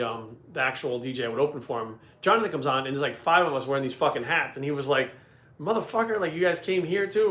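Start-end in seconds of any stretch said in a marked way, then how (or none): 5.6-7.3 higher-pitched retold disbelief; retold surprise. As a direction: act out someone amazed to run into you. Acted surprised greeting at the club.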